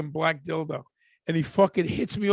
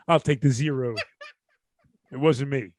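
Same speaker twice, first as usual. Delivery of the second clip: Eddie Murphy-style denial; 5 semitones lower than usual. Retold or imitated. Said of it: "I'll pull the Eddie Murphy".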